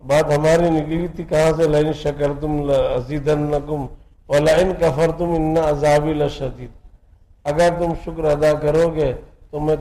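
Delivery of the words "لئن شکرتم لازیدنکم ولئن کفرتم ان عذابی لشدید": slow, measured Arabic recitation of a verse; preacher reciting a Quran verse to his listeners, slow and solemn; Quranic recitation. Acted. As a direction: intone the verse slowly and reverently. Recites Quranic verse mid-sermon.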